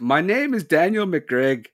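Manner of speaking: Irish only creeping in at the end; weak Irish accent. Shown as a demonstration. Host failing to do an Irish accent on request. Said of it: "it doesn't sound Irish until the last syllable".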